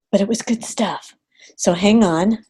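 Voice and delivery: a quick whispered note to herself; whispered aside. Real, not acted. Coach muttering to herself while running over time, whispered. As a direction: whisper it off to the side.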